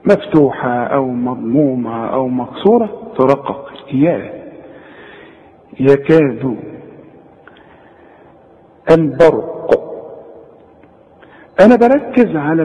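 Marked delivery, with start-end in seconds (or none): 5.8-6.6 يكاد with a thin ي; light ya. Shown as a demonstration. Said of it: "كل ياء في القرآن ... ترقق".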